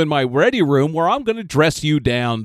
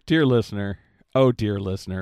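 put-on old man voice; 7 semitones lower, 3 dB quieter than usual. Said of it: "possessed by the spirit of an old man".

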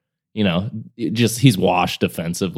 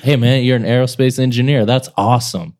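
sarcastic praise; 4 semitones higher than usual. Retold or imitated. Replying to a hater online, in syrupy sarcastic praise. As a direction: lay the fake compliments on thick. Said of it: "I'm like".

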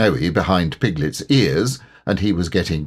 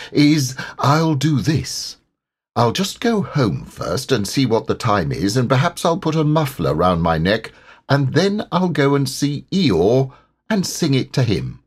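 amble through it like a content little bear; Pooh; 5 semitones higher than usual. Acted. Pooh planning his visit, lightly voiced bear.

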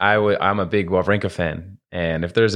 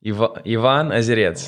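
"Ivan Ozarets" with a Russian lilt, "Ozarets" as "æzɪdiəts"; mild Russian accent; 3 semitones higher than usual. Shown as a demonstration. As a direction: say the name again with Russian vowels. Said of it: "Say it one more time".

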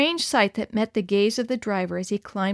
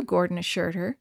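usual speaking voice

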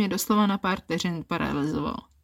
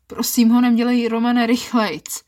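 higher, louder eager orders; breathless commands; 4 semitones higher, 5 dB louder than usual. Acted. Woman giving orders to Roman, eager and louder. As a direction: urge him faster, insistent. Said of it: "udávám rozkazy".

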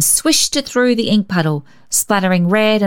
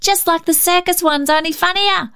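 put-on very high, thrilled boy's voice; delighted cry; 12 semitones higher than usual. A narrator's reading. Cecil admiring the clown blots, very high thrilled cry. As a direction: gush over the clowns. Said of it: "cried Cecil".

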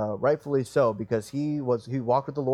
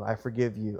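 subdued, understated, heartfelt pardon; sincere prayerful forgiveness; 3 semitones lower, 4 dB quieter than usual. Acted. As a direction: let it go humbly, as if praying privately. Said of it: "That'd be the right way to go".

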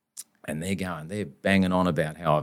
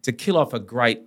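impassioned lawyer speech; 3 semitones higher than usual. Retold or imitated.

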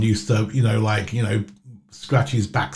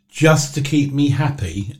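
put-on sweet child plea; 3 semitones higher than usual. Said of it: "I'd say".

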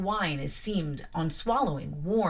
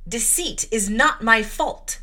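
savage cry; 3 semitones higher, 6 dB louder, slower than usual. Acted. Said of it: "I cried out in a savage, high voice".

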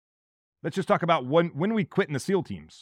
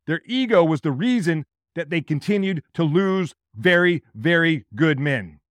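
louder and higher, hammering the point; forceful emphasis; 3 semitones higher, 5 dB louder than usual. Real, not acted. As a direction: drive it home with real force. Angry about ego costing lives.

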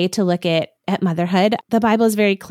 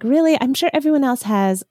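sarcastic disbelief. Retold or imitated. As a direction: scoff like a doubtful mom. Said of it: "moms listening often are like".

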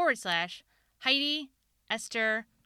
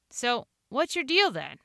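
a cutting question, higher and louder; sharp, pointed; 6 semitones higher, 5 dB louder than usual. Acted. Narrator confronting wife in the car, sharp and pointed. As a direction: jab the question like a knife point. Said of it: "like the point of a knife".

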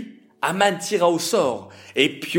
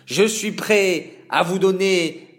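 hateful voice; 5 semitones higher, 4 dB louder than usual. Acted. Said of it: "déclara Aman d'une voix haineuse".

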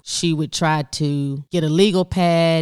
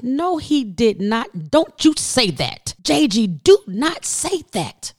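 stern denial; 7 semitones higher, slower than usual. Retold or imitated. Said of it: "she said".

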